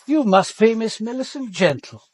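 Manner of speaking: calling across the water. Acted. Commander to the woman in the dinghy, calling out across the river. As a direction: call out to someone rowing away.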